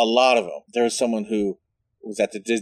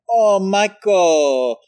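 high, slow, sing-song gush; imitating flamboyant boyfriend; 8 semitones higher, 5 dB louder, much slower than usual. Boyfriend cooing to grown nephew Michael, high and drawn out. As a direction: coo it like a doting uncle. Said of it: "I just remember him being like".

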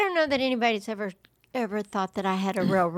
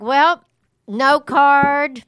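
mock shrug; 5 semitones higher, 6 dB louder, much slower than usual. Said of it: "So I was like".

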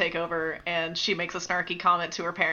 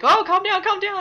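much higher, urgent hushing; imitated soothing crowd; 14 semitones higher, 6 dB louder than usual. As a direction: frantically try to settle someone, playfully. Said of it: "everyone's like".

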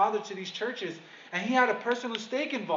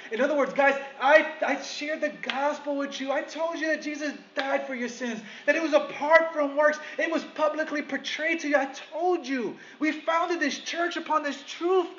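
passionate plea; 5 semitones higher than usual. Retold or imitated. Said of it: "voicing Paul's passionate plea".

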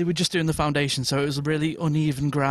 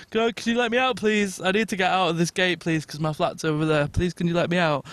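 put-on drunk pleading.

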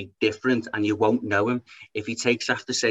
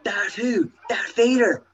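high, put-on villain voice, slowing at the end; hammed-up Vader threat; Darth Vader; 9 semitones higher, slower than usual. Vader threatening Obi-Wan in a silly high voice.

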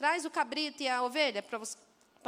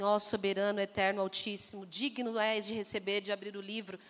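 oração formal pomposa; 5 semitones lower than usual. Pretend. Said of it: "Você fala assim com seu pai?".

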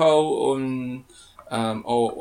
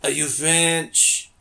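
slow, badly faked French accent; attempted French accent; much slower than usual. Host retries pickup line for co-host, shaky-skilled French accent. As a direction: have a clumsy go at a French accent. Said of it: "say it in a French accent".

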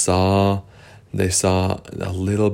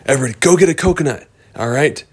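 rallying call; 5 semitones higher, much faster than usual. Acted. Character rallying group.

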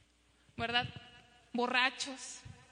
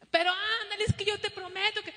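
put-on higher, louder kid begging; pleading child; 6 semitones higher, 4 dB louder, faster than usual. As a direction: promise anything to get a yes. (niño suplicando, voz aguda y fuerte)

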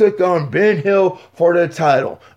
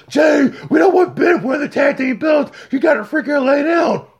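a bit higher, pushy order; hint of a scheming partner; 7 semitones higher than usual. A partner pressuring Jay to lay down, mildly pushy. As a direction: lean on him to throw it. Conspirator voiced telling Jay.

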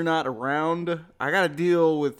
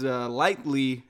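lightly drawn out slowly and set apart; stress on lightly; slower than usual. Real, not acted. Modest wrestler stressing he only trained lightly, slow emphasis. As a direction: lean on lightly, slow and deliberate. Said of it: "and I do stress the word lightly".

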